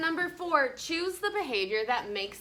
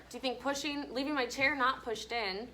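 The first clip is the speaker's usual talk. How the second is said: quiet aside; 6 dB quieter than usual. Real, not acted. Teacher quietly questioning child.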